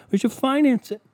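high, loud shout of finance; mock excited. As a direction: cheer the bad idea. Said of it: "these fucking people are like".

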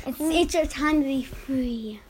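soft, slow whisper. Real, not acted. Sister nudging the shy little one to speak, whispered. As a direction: whisper it low and slowly, coaxing.

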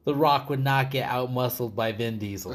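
loud, laughing mock indignation; laughing outrage. Watching Vin Diesel beat The Rock, loud laughing outrage. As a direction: scoff loud through laughter at the fight. Retells his outraged reaction.

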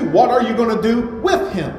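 WITH set off and punched; stress on WITH. Real, not acted. Preacher asking his congregation a pointed question, stress on "with". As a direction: lean hard on the word "with". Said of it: "Let me stress that word".

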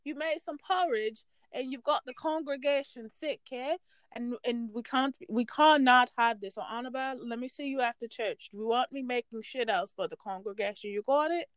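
mock-British church scolding, accent drifting; British pastor reprimanding a congregant, played for laughs; attempted British accent. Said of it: "this accent is turning really fast".

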